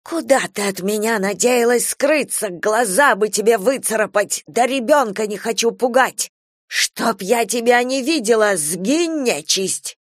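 frighten her off; scary voice. Acted. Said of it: "специальным страшным голосом сказала".

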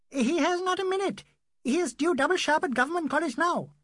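a hint of sly mockery; needling lawyer. Ramchand taunts the doctor about being busy, lightly mocking.

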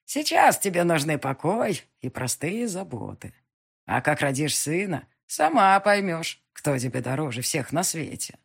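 put-on a wise old witch who sees all. Witch calms the heroine.

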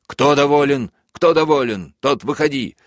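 high, loud barked question; furious shout. A narrator's reading. Major shouts at the crowd who is satisfied, high and loud. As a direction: demand an answer at full voice.

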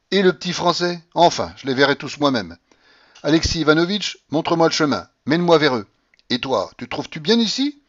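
put-on loud, high, imperious old lady; old grandmother shouting. A narrator's reading. Grandmother shouting at the stunned tutor, imperious and loud. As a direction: bark at him like a domineering grandmother.

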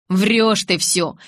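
slow, loud disbelieving retort; slow accusation. Acted. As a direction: drag out the accusation. Jacob rejects her promise.

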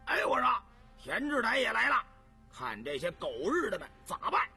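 loud, rowdy onlooker calling out; 起哄看热闹. Acted. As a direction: call out to the crowd, stirring things up. Onlookers shouting and arguing. (看热闹的高声起哄)

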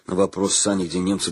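usual speaking voice

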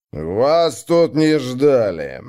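slow, heavy and hostile; rude greeting. Acted. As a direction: lay each word down slowly like a threat. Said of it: "Грубо поприветствовал". (грубо, медленно, с угрозой)

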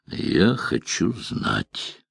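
very slow, softened, measured words. A narrator's reading. Witcher demanding answers from the wizard, said slowly. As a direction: draw each word out quietly. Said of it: "медленно сказал Геральт".

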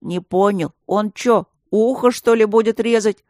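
alarmed whisper-worthy shock. A narrator's reading. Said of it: "сделав страшные глаза".

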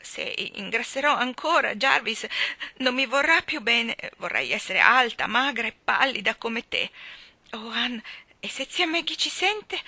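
put-on young woman close to tears, high and pleading; distraught young girl. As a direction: play Dovi as a weepy, overwrought young bride. Dovi's voice in story.

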